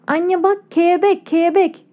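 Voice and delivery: put-on excited little girl, high and giggly; half laughing, half talking. A narrator's reading. A girl shows her mother the butterfly clip, half laughing. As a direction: squeal it between a laugh and a word. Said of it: "Konuşmak ve gülmek arasında bir ses ile".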